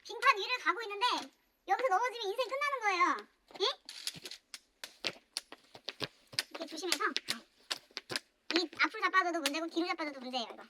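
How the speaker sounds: high, soft little squeak; tiny high voice. Acted. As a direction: speak like a tiny timid creature. Same tiny voice, fast.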